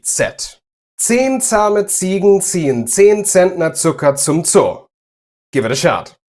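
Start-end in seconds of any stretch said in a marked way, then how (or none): 1.0-4.9 German tongue twister, every "Z" a crisp ts, pitched higher; sharp Z sounds. Shown as a demonstration. Teacher models a tongue twister for practising sharp ts on "Z". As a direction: hit each "Z" in "Zehn zahme Ziegen" as a sharp ts. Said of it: "The sounds should be really, really sharp".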